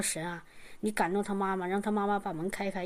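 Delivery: soft, low murmured prayer to God; hushed prayer. Retold or imitated. Waiting at the door, praying softly to God. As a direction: pray it under your breath.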